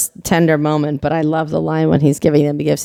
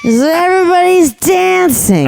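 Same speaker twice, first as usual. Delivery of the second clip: laughing; 12 semitones higher, slower than usual. Real, not acted. Laughing at the bar scene.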